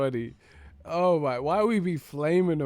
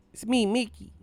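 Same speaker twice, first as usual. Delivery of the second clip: higher-pitched mock skit voice, acting out both roles; skit impression of a rapper; 11 semitones higher than usual. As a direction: ham up the skit lines like a rap sketch. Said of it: "that rapper skit".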